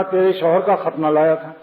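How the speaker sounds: خط نہ run together like one word; تیرے شوہر کا خط نہ لایا تھا without a break after خط; no pause. Shown as a demonstration. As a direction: join خط straight onto نہ. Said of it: "وقف نہیں کیا".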